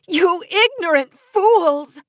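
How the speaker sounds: slow, loud contemptuous yell; angry outburst. A narrator's reading. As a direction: spit out the insult slowly. Beatrice's outburst at fools.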